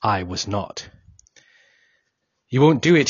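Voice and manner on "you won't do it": yelled. Acted. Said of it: "he yelled".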